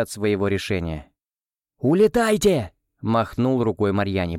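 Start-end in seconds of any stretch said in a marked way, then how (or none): 1.8-2.7 loud high command; shout. A narrator's reading. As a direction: wave them off with a shout. Герой машет Марьяне. (громкий окрик)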